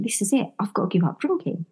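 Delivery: soft, quiet thought to herself; inner resolve. Retold or imitated. Resolving alone to quit drinking, quiet inner voice. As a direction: say it under your breath, decided. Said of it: "I thought".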